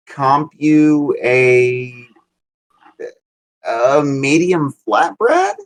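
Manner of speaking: low, halting service apology; apologetic customer service. Shown as a demonstration. Worker comping a flatbread after a delivery issue, apologetic customer service voice. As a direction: stretch out the offer, lifting at the end. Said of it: "a thing I was actually good at was".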